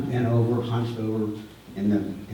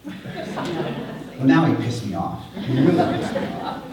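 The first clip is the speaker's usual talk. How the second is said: laughing; 2 semitones higher, slower than usual. Real, not acted. Laughing while recalling anger.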